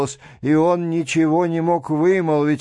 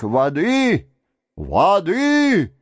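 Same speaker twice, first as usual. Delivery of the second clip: frightened cry; 4 semitones higher, much slower than usual. A narrator's reading. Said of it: "Раздался её испуганный крик".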